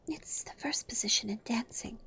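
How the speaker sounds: puzzled whisper. Acted. Puzzled Alice.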